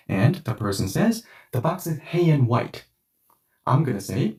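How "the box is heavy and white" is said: "hey and white", heavy said as hey with no v; heavy run together. Shown as a demonstration. Friend answering which box, heavy run together. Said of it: "the V and Y disappears".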